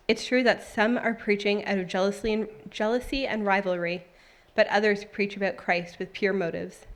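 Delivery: steady, clearly projected Bible reading; scripture reading. A narrator's reading. Reading Paul's letter from prison to the church, scripture reading. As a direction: read the letter aloud to the congregation.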